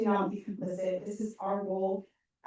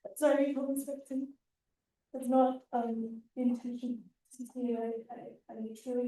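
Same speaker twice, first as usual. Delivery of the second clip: higher, breaking voice close to tears; emotional; 5 semitones higher than usual. Real, not acted. Officer apologizing to the students who felt misrepresented, tearful. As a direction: apologize while fighting back tears. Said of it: "I'm sorry for getting emotional".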